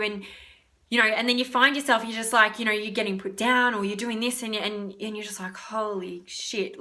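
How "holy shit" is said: slow, hushed disbelief; stunned mutter. Acted. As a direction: let it out slowly and softly, stunned. Stunned reaction in an acted quote.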